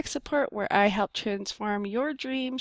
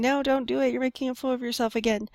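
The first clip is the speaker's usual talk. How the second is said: lightly voiced inner critic, higher pitch; mock-screaming ego; 3 semitones higher, faster than usual. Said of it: "my ego kicking and screaming".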